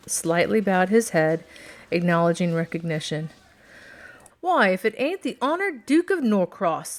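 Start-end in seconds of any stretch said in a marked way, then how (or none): 4.4-7.0 higher, excited exclamation; crying out. A narrator's reading. Shopkeeper cries out, greeting the duke, excited and higher. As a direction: call out the duke's arrival with glee. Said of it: "the man behind the counter cried".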